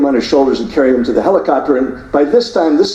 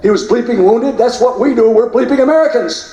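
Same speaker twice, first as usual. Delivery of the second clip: higher-pitched, defiant fire-back; a corpsman snapping back at the reporters; defiant corpsman retort; 8 semitones higher than usual. Retold or imitated. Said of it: "gestures over to him and says".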